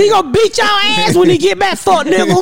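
high, fierce warning; retold threat. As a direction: warn them hotly.

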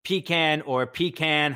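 pecan said twice as PEE-can; PEE-can pronunciation. Shown as a demonstration. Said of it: "You can't say".

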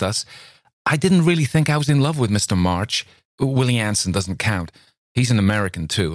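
agitated pleading. Acted. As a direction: plead with her whole heart. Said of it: "walked up and down in agitation".

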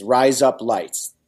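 "Rise up lights" stretched out evenly; slow phrase demo. Shown as a demonstration. Host repeating the trick phrase for Dan, slow demonstration. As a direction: repeat "Rise up lights" slowly, like Australian "razor blades". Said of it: "Think of that phrase".

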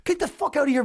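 high-pitched mock outrage; Paul Thompson. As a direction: imitate a friend ordering someone off. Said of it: "Paul's spitting in his face".

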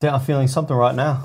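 quick put-on London accent; mock Londoner accent, said briskly; lightly faked London accent. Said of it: "what if you look at a Londoner".

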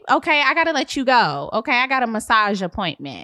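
airy, dismissive realtor; breezy realtor. Acted. Realtor ending the call for a massage, airy. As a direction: brush her off lightly.

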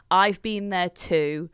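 slow, calm, no-judgment tone; unfazed. Retold or imitated. Friend reassuring crying mum, slow calm unfazed. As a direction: say it like it's no big deal. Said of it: "like, so unfazed".

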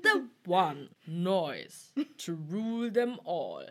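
slow, weighty, drawn-out delivery; epic proclamation. Pretend. Parodying one to rule them all, slow and portentous. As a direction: draw out each word like a grand prophecy. Lord of the Rings style take.

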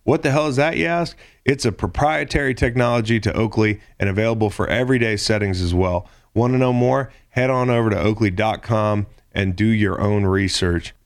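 upbeat sponsor read. Acted. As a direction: sell it like a radio ad. Host reads Oakley ad.

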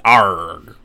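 lightly voiced pirate; a hint of pirate growl. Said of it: "It's a good pirate voice".

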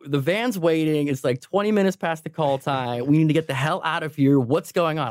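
toned-down imitation of a screaming boss; retold screaming. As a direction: imitate an irate boss yelling, held back.

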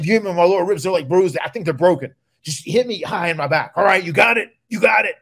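grumpy and insistent, making sure he got it; testy warning. Retold or imitated. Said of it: "He was really, really testy".

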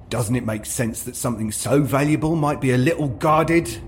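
stormed. Acted. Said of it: "stormed Ias".

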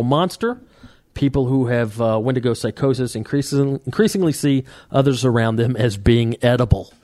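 measured article read; reading aloud. Real, not acted. Podcaster explaining Wendigo psychosis to co-host, reading aloud. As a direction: read out a list of symptoms evenly.

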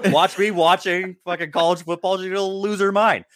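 high, laughing disbelief. Real, not acted. Laughing about fiancée's reaction.

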